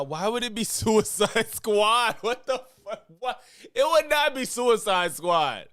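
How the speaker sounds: high-pitched, laughing disbelief; incredulous. Real, not acted. Reactor to a film critic's claim, incredulous.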